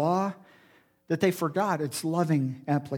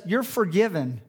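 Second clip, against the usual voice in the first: gentle and sincere. Shown as a demonstration. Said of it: "No, he says".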